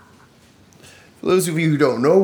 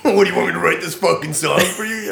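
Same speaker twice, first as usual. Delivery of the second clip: mock exasperated Will; 5 semitones higher, 3 dB louder than usual. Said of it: "in his loving, hating, "fuck you, I love you" way".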